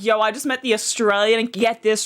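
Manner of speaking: lightly mimicked guy hyping a story to friends; low-pitched mock retelling in one quick run; imagined bro storytelling. Guy telling his friends about the Australian, lightly mimicked. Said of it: "he probably went around to his friends like".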